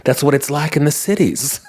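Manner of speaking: a hint of Southern aunt telling her tale; Southern accent. Aunt retelling Chicago story to family, lightly Southern accent. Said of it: "I gave her an accent that she didn't have".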